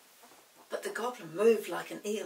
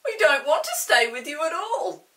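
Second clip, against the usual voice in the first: loud, higher insistent retort; defiant pixie; 6 semitones higher, 12 dB louder than usual. A narrator's reading. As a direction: refuse him flatly. Chinky defies the goblin.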